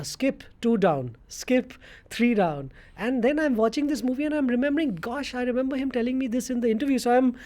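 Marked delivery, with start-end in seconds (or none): 0.0-2.7 slow, spaced-out announcement; retold team call. Teammate updates showering captain on fallen wickets, slow retold call. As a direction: relay each update slowly, leaving gaps. Quoting knocks on the shower door.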